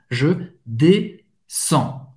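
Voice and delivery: Je descends very slow, with the EN said as a nasal on. Shown as a demonstration. Teacher models the nasal on in Je descends slowly. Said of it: "E N tem o som do on".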